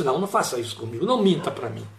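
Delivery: hushed, hurried plea; a quiet plea not to be lied to; soft pleading rush. Acted. Woman to prophet, a hushed, hurried plea.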